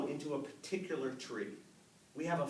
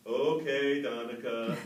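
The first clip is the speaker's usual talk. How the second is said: loud meek agreement; 2 semitones lower, 7 dB louder, slower than usual. Retold or imitated. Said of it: "what I did say was".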